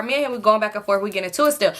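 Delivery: usual speaking voice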